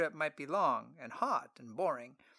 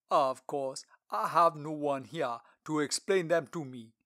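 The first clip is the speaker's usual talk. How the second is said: slow, loud, stately official; Lord Treasurer voice; 6 dB louder than usual. Acted. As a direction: speak like a dignified royal treasurer.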